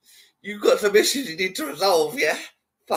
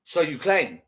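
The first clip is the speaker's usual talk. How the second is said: imitating him; 2 semitones lower than usual. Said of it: "The way he said that".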